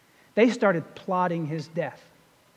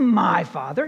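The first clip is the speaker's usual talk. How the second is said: "my" leaned on as the wrong word; single out "my" with a firm push; stress on my; 3 semitones lower than usual. Shown as a demonstration. Preacher contrasting it with the prayer all said, stress on "my". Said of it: "It's not".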